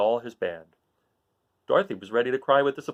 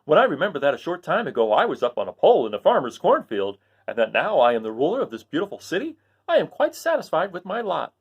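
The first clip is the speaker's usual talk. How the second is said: lightly voiced cheery Scarecrow; 6 semitones higher than usual. Scarecrow telling friends he is satisfied. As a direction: content straw man, a bit higher. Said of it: "said the new ruler".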